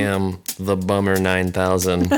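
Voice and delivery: loud, booming robot overlord; menacing machine announcing its orders. Pretend. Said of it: "your stupid robot voice".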